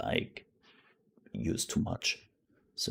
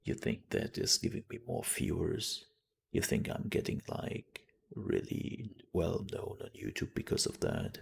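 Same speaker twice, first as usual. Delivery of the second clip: softer, low whispered imitation of Corpse; a hint of his deep persuasive whisper; lightly voiced Corpse; 7 dB quieter than usual. Shown as a demonstration. Streamer imitating a friend's famous voice, softer low whisper. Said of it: "going a little bit lower".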